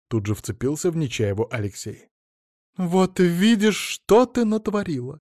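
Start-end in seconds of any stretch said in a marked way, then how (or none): 2.8-5.2 high, slow, exasperated scolding; exasperated reproach. Acted. Friend reproaching Naina for what she has done, exasperated scolding. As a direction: throw up your hands and scold her. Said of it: "всплеснула руками".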